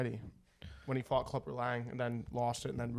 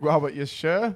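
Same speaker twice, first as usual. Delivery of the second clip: grandpa impression; 3 semitones higher, 10 dB louder than usual. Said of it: "He's like".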